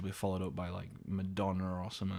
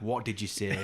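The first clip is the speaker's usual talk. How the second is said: slow face-to-face ask. Retold or imitated. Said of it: "get him to look at me in the eyes and be like".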